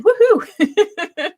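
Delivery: a bright high laughing woohoo; excited cheer. Real, not acted. Host welcoming another Benjamin to the stream, laughing cheer. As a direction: cheer the new arrival with a laugh. Greeting another viewer joining.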